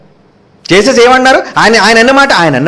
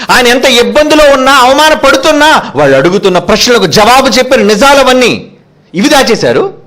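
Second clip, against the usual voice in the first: raised pitch, pressing sermon cadence; impassioned preaching; 5 semitones higher than usual. Acted. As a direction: press each phrase on the congregation, pitched high. Preacher builds his accusation. (ఆవేశంగా గొంతెత్తి చేసే ప్రసంగం)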